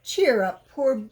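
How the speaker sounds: calling out. Acted. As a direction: call to cheer him up. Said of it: "called a voice".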